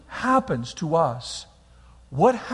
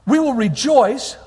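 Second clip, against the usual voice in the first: slow scripture recital; slower than usual. Shown as a demonstration. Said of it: "It says".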